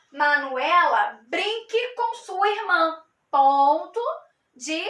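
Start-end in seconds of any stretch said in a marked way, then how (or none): 0.1-3.0 a firm order to Manuela; commanding tone. Shown as a demonstration. Teacher demonstrating an imperative command to students. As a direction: give the command like a mild order. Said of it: "vai ficar da seguinte maneira".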